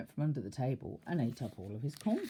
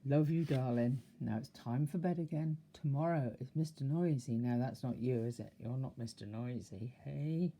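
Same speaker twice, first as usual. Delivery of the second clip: tender goodnight. Real, not acted. Parent saying goodnight to child.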